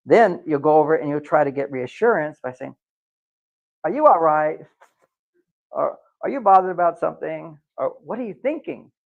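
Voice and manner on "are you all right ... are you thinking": mock anxious wife. Wife asking for reassurance.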